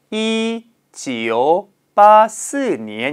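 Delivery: 이지오 빠스 said slowly, each digit separate with its Chinese tone. Shown as a demonstration. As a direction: read 이지오 빠스 one digit at a time, slowly. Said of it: "어떻게 답변하시면 돼요".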